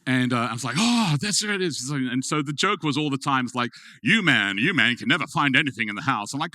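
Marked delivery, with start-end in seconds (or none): 0.8-1.9 high, louder mock "oh, there it is"; hammed-up surprised husband; mock surprise. Husband retold finding peanut butter. 4.0-6.3 louder mock scolding of hapless man; playful family teasing, a bit louder. Family's running joke teasing him.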